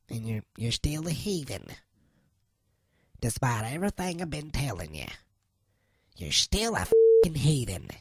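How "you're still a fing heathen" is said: exasperated outburst. Acted. Preacher berating listeners, swears.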